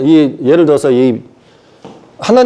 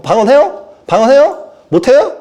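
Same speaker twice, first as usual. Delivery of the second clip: high, pestering questions with a sharp upward lift; mock interrogation, pitched up; mock Presbyterian quizzing; 9 semitones higher than usual. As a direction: imitate a pushy church member testing someone. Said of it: "이게 장로교".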